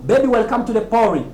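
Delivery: quoted lyric with "party" as "PAW-ree"; American pronunciation. Retold or imitated. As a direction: tap the T in "party", like "pori". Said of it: "comment l'Américain la prononce".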